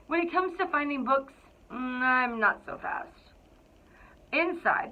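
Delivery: lively, expressive picture-book narration; storybook read-aloud. A narrator's reading. Principal reading to the Cougars, storybook narration. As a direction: read it like you're sharing a favorite book with kids.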